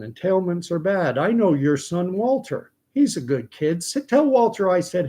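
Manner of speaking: put-on an innocent girl greeting a neighbour; chatty little girl. Scout greets Mister Cunningham in a high child's voice. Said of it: "and goes".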